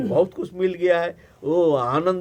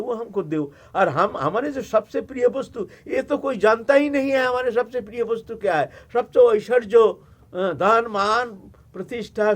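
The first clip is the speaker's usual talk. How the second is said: amused Shiva; 4 semitones higher, 4 dB louder than usual. Acted. Shiva laughing at the request.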